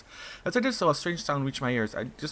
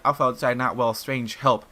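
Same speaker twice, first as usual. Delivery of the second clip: a hint of a frightened whimper, louder; whimpering creature voice; 6 dB louder than usual. Pyrseed begging Alpha for help, whimpering. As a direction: plead like a scared pet.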